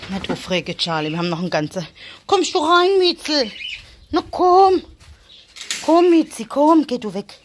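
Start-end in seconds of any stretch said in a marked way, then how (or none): 2.3-6.9 high, loud coaxing call; calling the cat. Real, not acted. Coaxing the cat inside with a high call. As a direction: lure the kitty in with a sing-song call.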